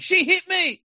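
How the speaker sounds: very high, accusing outcry. Retelling a man who hit a woman, then imitating someone shouting. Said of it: "immediately starts shouting".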